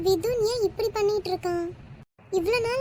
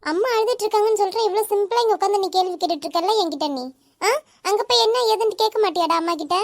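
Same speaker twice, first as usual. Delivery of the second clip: brisk, slightly raised telling-off; mild scolding; 4 dB louder than usual. Acted. Sibling sends brother to ask crying mother, mildly scolding. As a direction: scold a little brother, a touch exasperated.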